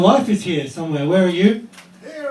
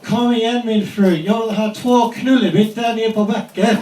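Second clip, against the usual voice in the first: mock yell; 4 semitones higher, 3 dB louder than usual. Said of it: "And I yelled out".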